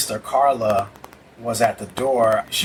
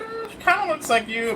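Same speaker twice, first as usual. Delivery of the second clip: mom's hedge. Retold or imitated. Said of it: "what my mom would say".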